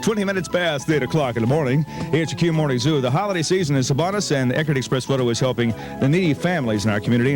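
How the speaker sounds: normal talking voice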